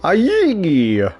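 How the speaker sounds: high distorted battle cry; Difford Pines with voice changer. Retold or imitated. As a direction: yell like a voice-changed brawler. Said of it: "my best impression of Difford Pines with a voice changer".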